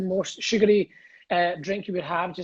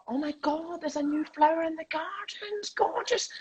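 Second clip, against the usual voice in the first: mock delight; 8 semitones higher than usual. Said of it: "I genuinely thought".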